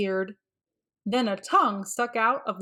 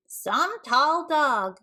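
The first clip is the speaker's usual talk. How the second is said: slow, high mocking drawl; sarcastic jeer; 6 semitones higher, much slower than usual. Kids sneer at the tall dog act, slow and sarcastic. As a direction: drag it out in scorn.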